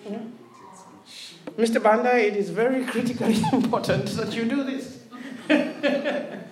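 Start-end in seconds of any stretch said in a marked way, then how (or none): 1.6-5.0 mock-polite threat, voice kept down; restrained British threat. Preacher imitating British people threatening Mister Banda, restrained threat. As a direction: threaten softly without raising your voice. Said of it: "threatening language without raising their voice".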